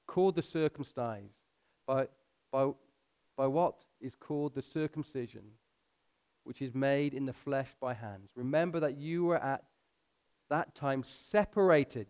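measured scripture reading with pauses; slow reading. Real, not acted. Preacher reading the passage to his congregation, slow and measured. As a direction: read slowly, letting each phrase sink in. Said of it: "I'm gonna read it slow".

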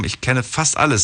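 emphasis falls on the word "fast"; stress on "fast". Retold or imitated. Host quoting Birgit's mail, stress on "fast". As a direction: lean on "fast" in "fast alles". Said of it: "Betonung liegt auf fast alles".

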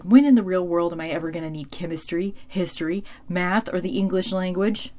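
mock frustration. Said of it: "Buffy's frustrated".

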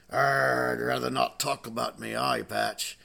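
lightly voiced reluctant pirate; a hint of grumbling sea-dog. Pirate declines to discuss his eye patch, lightly voiced pirate. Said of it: "there was a real life pirate".

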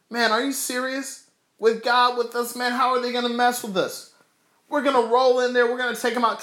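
high-pitched, fired-up retold boast; charged up. Caleb and Joshua answering the fearful spies, charged up. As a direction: act out a warrior raring to go. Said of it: "He was charged up".

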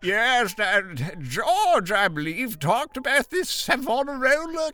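high, stilted AI assistant voice; AI co-host voice. Pretend. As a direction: play a chirpy AI co-host. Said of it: "my new A I co-host".

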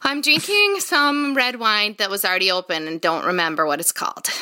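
natural upper Midwest accent. Real, not acted. Guest answers what she is drinking, natural Midwest accent. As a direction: let the Midwest flavor come out. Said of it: "her natural accent came out".

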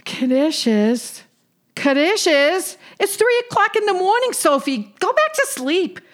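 put-on indignant old Jewish aunt; high, exasperated yenta; yiddish accent. Sadie woken at three a.m.

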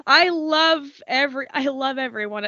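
real tearful affection, stumbling over words; choked up, restarting the sentence. Real, not acted. Podcaster telling friends she loves them, tearful. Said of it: "I don't know why I'm crying".

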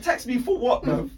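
loud, high-pitched protest through laughter; mock indignant. Driver retelling reply to a bribe request, mock indignant. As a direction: throw it back incredulously, laughing.

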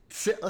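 "sit-" loud and high, swallowing the T; dropped T. Pretend. Podcaster making fun of British speech, T dropped in "sit-". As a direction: attempt "sit-" British-style with a glottal stop for T. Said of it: "take out the T".

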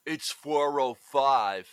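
mild Seagal imitation, slowed; Seagal impression. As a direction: drawl it flat like Steven Seagal. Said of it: "super whispery Seagal impression kind of voice".

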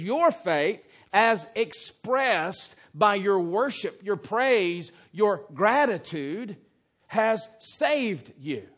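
loud, slowed, building proclamation; Jesus pronouncing the blessing; emphatic blessing. Acted. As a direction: proclaim the salvation slowly. Preacher voices Jesus' blessing.

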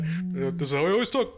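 Bernie Sanders voice. Pretend. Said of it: "Mister Sanders".

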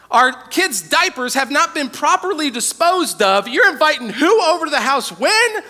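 exasperated wife. Retold or imitated. Wife on the phone reacting to surprise guests, exasperated. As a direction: play the overwhelmed wife. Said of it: "my wife is going".

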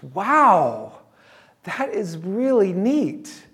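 hammed-up wow from a teenage girl. Girl reacting to her name's meaning, mock impressed teen voice.

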